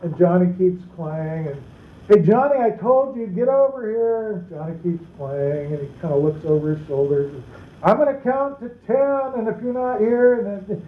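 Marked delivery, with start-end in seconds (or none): 2.1-4.3 mock impatient call. Parent repeats call, more insistent. 7.8-10.8 high, strained countdown warning; a fed-up parent warns a dawdling child; exasperated parent threat. Retold or imitated.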